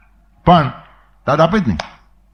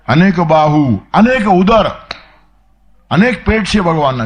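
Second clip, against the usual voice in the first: fervent proclaiming; 4 semitones higher, slower than usual. Real, not acted. Preaching climax repeated.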